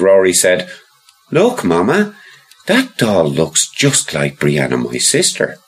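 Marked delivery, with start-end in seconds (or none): 1.3-5.6 put-on child voice. Rory points at doll.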